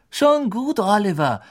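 calm him, a bit alarmed; slightly worried. A narrator's reading. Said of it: "sagte Fred eine Spur beunruhigt".

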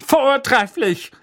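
high, loud, slow relish; approving aunt. Acted. Aunt delighted at the caning, slow relish. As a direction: savour the word. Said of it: "sagte Tante Magda".

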